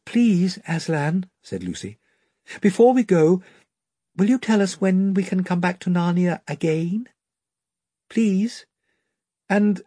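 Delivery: put-on high, urgent childish begging; Lucy pleads to come back soon, high and urgent; pleading girl. A narrator's reading. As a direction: beg him with all your heart.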